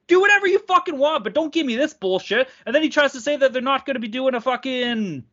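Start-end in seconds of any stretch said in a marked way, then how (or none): 0.1-2.5 high, fed-up dismissal; exasperated outburst. Real, not acted. Podcaster fed up with league excuses, exasperated. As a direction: throw it out indignantly, pitched way up.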